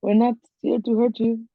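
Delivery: put-on calm a frightened child; calm gentle greeting. Player greeting the scared rabbit child calmly. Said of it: "talk very calmly and just say".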